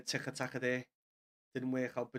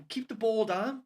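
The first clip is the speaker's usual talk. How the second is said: higher, louder, fed-up repeat at the telly; a real fan's frustrated cry, higher and louder; exasperated repeat; 7 semitones higher, 4 dB louder than usual. Real, not acted. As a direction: throw up your hands and yell it again at the screen.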